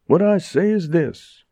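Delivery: high-pitched declaiming; orating. A narrator's reading. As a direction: announce it like a speech-maker. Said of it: "orated Porky Martin".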